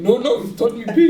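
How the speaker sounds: high-pitched protest. Retold or imitated. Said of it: "That's who has the higher voice in the team".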